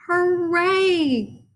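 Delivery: high excited cheer of the crowd. A narrator's reading. Fans cheering for Froggy, high and excited. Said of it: "cheered Froggy's fans".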